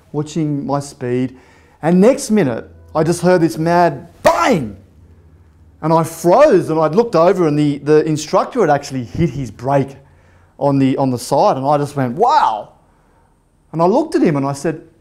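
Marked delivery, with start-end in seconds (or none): 4.2-4.8 sudden drawn-out "bang"; imitated bang. Imitating the loud crash. 12.2-12.7 drawn-out, stunned wow; mock-shocked exclamation; retold astonishment. Retold shocked reaction to braking.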